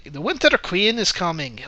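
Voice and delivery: mock Irish accent, lilting up on the words; bad Irish accent. Reviewer quoting Hemsworth's character to mock the film, bad Irish accent. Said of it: "speaks with a really bad Irish accent".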